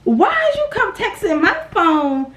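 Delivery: ordinary talk, nothing marked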